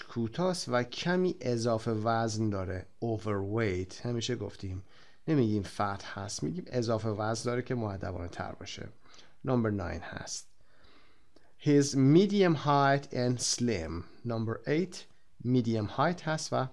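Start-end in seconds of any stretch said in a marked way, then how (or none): 3.0-4.1 Overweight said slowly on its own; a teacher repeating a key word; drilled word. Shown as a demonstration. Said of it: "He is short and a little overweight". 11.6-14.0 slow model reading. Shown as a demonstration. Teacher models book sentence.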